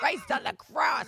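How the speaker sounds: loud slow exclamation; exclaimed. Shown as a demonstration. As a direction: call it out, drawn out. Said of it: "exclaiming her own phrase".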